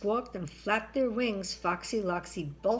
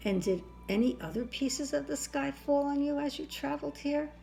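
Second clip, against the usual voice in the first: king voice; 7 semitones higher than usual. A narrator's reading. King questions Chicken Little.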